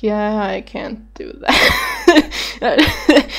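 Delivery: drawn out through laughter; slow laughing resignation. Retold or imitated. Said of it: "And I'm like".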